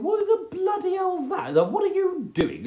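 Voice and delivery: high, shrill-sounding puzzled cow voice; cow's thoughts. Retold or imitated. Voicing a cow in the field eyeing a stranger, high and puzzled. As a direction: voice the confused cow staring at you. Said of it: "It's thinking".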